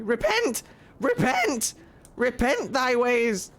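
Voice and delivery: hammed-up cry to repent; mock preacher. Streamer playing at rebuking the party, mock preaching. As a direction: play a righteous scolder, drawing out the last words.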